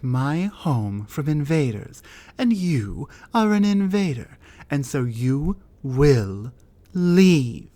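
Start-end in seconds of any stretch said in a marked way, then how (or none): 2.4-7.7 builds to a loud, commanding LEAVE; rising command. Acted. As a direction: order them out, loud on the last word. Ordering invader out of home.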